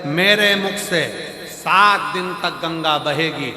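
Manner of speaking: measured sermon proclamation, mimicked; put-on discourse delivery; preaching maharaj. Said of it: "महाराज जी प्रवचन दे रहे थे".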